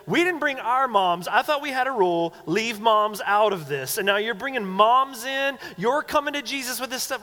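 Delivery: high, loud comic complaint; mock indignation. Disciples mad at brothers who brought mom, hammed-up indignation. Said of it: "they're mad".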